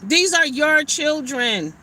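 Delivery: slowed down, every word spelled out; slow and deliberate repeat; slow emphatic repeat. Acted. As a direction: drag it out so it sinks in.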